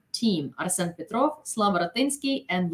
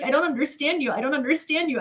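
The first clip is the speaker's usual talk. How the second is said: baffled English dude; 7 semitones higher than usual. Retold or imitated. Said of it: "this poor English dude".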